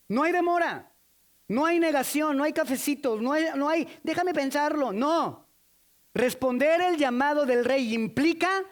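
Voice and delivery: high and loud, building fervor; forceful preaching. Real, not acted. Preacher urging the congregation, loud and high. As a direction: hammer each "no hay" to the crowd.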